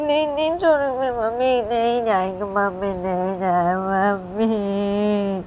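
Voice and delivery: put-on young girl refusing to let go; child pleading. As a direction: whine like a clinging daughter. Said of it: "Lisa पीयू को बोलती है".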